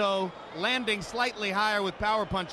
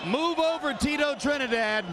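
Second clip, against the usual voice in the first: excited; 4 semitones higher than usual. Real, not acted. Commentator hails new star.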